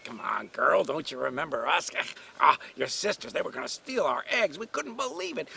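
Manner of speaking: lightly voiced talking duck, quick patter; hint of an indignant, gossipy duck; chatty duck.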